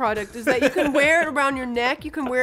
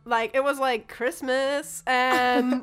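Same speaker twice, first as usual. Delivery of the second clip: lightly voiced Valley Girl storytelling; a hint of Valley Girl, stretched on key words; Tiffany. Valley Girl telling of mail delivery, light Valley Girl. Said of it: "a character named Tiffany".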